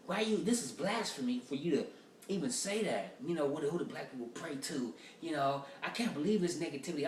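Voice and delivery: a hint of a huffy churchgoer; offended guy. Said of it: "So the black dude get mad".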